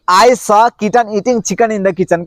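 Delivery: each word spaced out, very slowly; slow tongue twister. Shown as a demonstration. Teacher modeling a tongue twister slowly for learners. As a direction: drill it slowly for the students. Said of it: "क्या है?".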